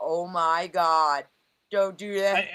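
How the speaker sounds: deliberate, slow, stretched-out words. Retelling the producer's reaction to a nickname, imitating Lauren. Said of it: "she was like".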